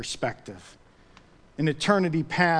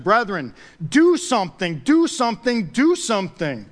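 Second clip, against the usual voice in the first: rousing exhortation; 4 semitones higher, 4 dB louder than usual. Acted. Preacher performs a famous rallying quote.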